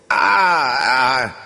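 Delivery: loud, high groan falling away; cries of pain. Acted. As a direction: groan in pain between words. Wounded man in pain.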